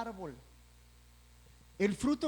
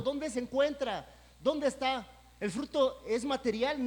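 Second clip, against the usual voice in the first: a raised, insistent voice, searching seat to seat; Jesus demanding fruit; 5 semitones higher, 3 dB louder than usual. Retold or imitated. Jesus walks in asking the congregation for his fruit, insistent and raised. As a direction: press each listener for what you owe. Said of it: "nos empieza a decir".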